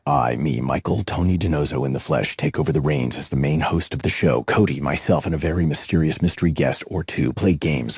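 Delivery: rushed breathless promo read; all in one breath. Shown as a demonstration. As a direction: rattle it off without breathing. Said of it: "I'm gonna try and do it in one breath".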